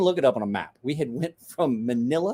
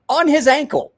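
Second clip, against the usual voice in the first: laughing high through the words; 13 semitones higher, 8 dB louder than usual. Real, not acted. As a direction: burst out laughing as you say it. Laughs at shark tattoo.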